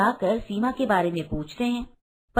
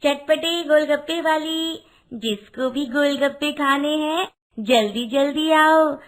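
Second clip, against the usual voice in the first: lightly voiced golgappa seller calling customers; street vendor's cry; 3 semitones higher than usual. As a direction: hawk snacks in a sing-out street call.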